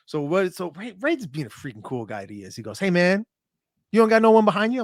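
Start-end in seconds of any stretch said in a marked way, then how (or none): 2.8-4.8 voicing Ray. Ray voiced offering to corner him.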